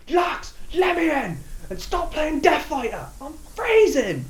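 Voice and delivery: high, loud annoyed call. A narrator's reading. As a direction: shout through the door, freezing. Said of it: "Kevin calls out".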